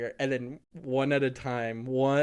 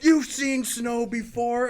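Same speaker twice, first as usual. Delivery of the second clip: high, slow, incredulous teacher voice; drawn-out disbelief as the teacher; mocking teacher; 9 semitones higher, 7 dB louder, slower than usual. Imitating the teacher asking the kids, slow and high. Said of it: "And she's like".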